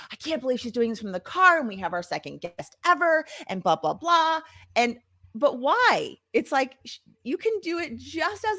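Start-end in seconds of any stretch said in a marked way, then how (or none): 0.0-4.4 a mock freak-out over doing it from the car; mock panicked fretting. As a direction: play the flustered worrier, hammed-up. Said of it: "I could be sitting here like".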